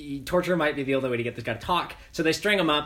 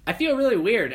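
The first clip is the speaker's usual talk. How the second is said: mock alarmed; 9 semitones higher, 5 dB louder than usual. Revived soldier feeling strange.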